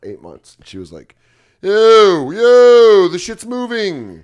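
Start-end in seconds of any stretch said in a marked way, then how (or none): 1.6-4.2 higher and louder, slowing on the last words; alarmed dog voice. Retold or imitated. Dog noticing the car move, high alarmed cry.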